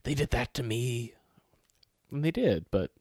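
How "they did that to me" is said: whispered in disbelief; stunned whisper. Retold or imitated. Grandson whispering to grandma in shock. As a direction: breathe it out, shaken.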